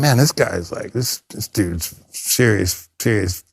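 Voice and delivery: low, soft, slow awe; lightly voiced hushed awe; mock awed thinking. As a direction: murmur it like a hushed inner thought. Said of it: "And I'm thinking".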